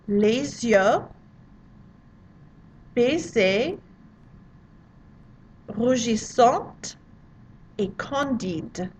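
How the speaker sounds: "Les yeux baissés, rougissante et candide" broken into slow pieces with long pauses; slow French drill. Shown as a demonstration. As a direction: drill it word by word, pausing for them to repeat. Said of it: "pronounce it after me".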